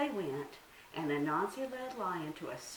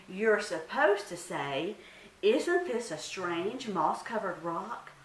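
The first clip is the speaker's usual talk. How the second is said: angry insistence; 2 semitones higher, 6 dB louder, slower than usual. Acted. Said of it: "Anansi was getting angry now".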